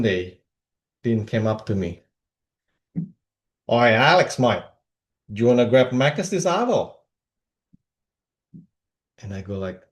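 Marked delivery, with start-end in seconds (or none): 3.7-7.0 lightly put-on Aussie accent; a hint of Aussie mate-speak; Aussie bodybuilder. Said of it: "Dean was this Aussie bodybuilder".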